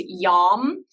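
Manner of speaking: Yam said like "yum"; pronounced "yum". Shown as a demonstration. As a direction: say Yam to rhyme with "hum". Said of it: "it's actually pronounced yum".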